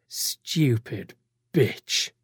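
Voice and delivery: barely voiced, soft; mouthed insult. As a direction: mouth it with contempt. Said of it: "as he mouths".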